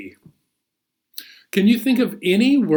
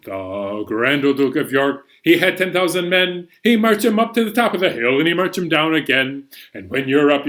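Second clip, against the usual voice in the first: a bit faster; faster than usual. Shown as a demonstration. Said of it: "Let's speed things up a little bit".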